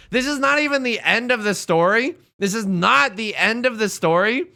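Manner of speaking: usual speaking voice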